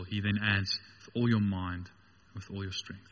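low, measured scripture reading with pauses; scripture recitation. Real, not acted. Preacher quoting Jesus's chief commandment, low scripture recitation. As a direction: recite it solemnly, phrase by phrase.

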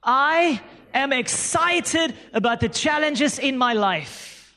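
slow, each word laid out for the crowd to repeat; slow call and response. Shown as a demonstration. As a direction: lead the congregation through it slowly. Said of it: "say it with me".

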